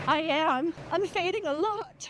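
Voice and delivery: tired, breathless running; gasping between words; out of breath. Real, not acted. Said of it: "Can you tell I'm fading?".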